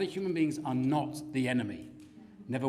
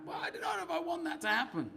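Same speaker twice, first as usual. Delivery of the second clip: reluctant whine; 12 semitones higher, 6 dB quieter than usual. Retold or imitated. Reluctant reply to God.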